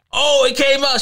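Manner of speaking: high-pitched teasing call-out; teasing exclamation. Retold or imitated. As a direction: pounce on it, high and gleeful. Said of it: "I was like".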